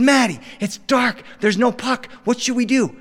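put-on a cold child begging his cousin; whiny kid voice. Young self pleading.

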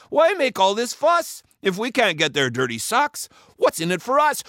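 high-pitched whiny pirate; disheartened pirate's high protest; complaining crewman. A narrator's reading. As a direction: grumble that it's not worth it.

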